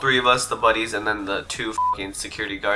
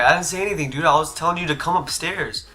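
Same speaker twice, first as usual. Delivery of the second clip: higher-pitched indignant denial; guilt-tripping; 4 semitones higher than usual. Retold or imitated. Salty kid denying he said leave, mock indignant guilt trip. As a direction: protest as if wronged, raising the pitch. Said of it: "I'm gonna kinda guilt trip them".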